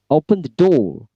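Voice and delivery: firm, high-pitched order, falling on "door"; high command intonation. Shown as a demonstration. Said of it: "high intonation". (perintah dengan intonasi tinggi)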